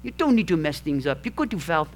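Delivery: put-on a loose stab at an old man's Southern accent; a hint of an elderly father-in-law's Southern accent, scolding quietly; attempted rural Southern accent. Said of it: "I think I've got the wrong accent".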